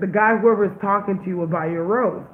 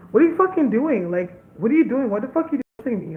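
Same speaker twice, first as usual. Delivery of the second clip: indignant retelling, pitched up at the start; retold indignation; 3 semitones higher than usual. Woman confronting the man who kissed her, indignant. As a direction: act out an affronted challenge.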